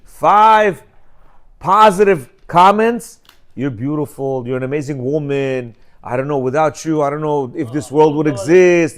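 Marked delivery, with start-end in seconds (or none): 3.5-9.0 soft, tender praise for a wife; sweet compliments. Shown as a demonstration. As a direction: lay on the sweet talk softly. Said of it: "five-to-one ratio".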